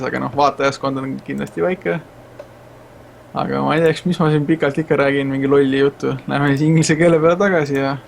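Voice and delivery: a quick message in Estonian, fast; speaking Estonian. Real, not acted. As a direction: rattle off a short speech in Estonian. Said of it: "speaking a little bit Estonian".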